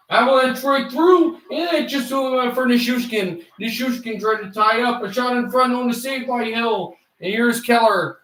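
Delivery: lightly voiced broadcaster calling the play; live play-by-play. Shown as a demonstration. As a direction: call the chance as it happens. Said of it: "Who's the next guy?".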